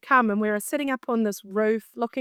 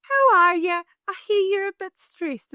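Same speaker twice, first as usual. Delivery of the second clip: nervous greeting; 8 semitones higher, 5 dB louder than usual. Retold or imitated. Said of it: "how do I segue into this".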